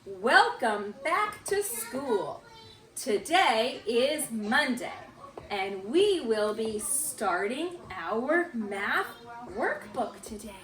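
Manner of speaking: slow, word-by-word read-aloud; measured read-along with drawn-out words; reading together. Shown as a demonstration. Teacher leading children through the morning message, reading slowly together. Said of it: "read it with me".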